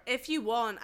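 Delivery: accidental Scottish accent. Shown as a demonstration. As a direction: try Irish, slip into Scottish. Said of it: "well, now I'm doing Scottish".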